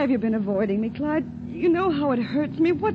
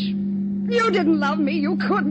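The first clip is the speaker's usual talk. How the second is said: raised, scornful outburst; angry shouting; 2 semitones higher than usual. Acted. Spurned woman berating her spineless lover, angry shouting. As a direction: hurl the accusation at him in a hysterical rush. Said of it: "Stop shouting".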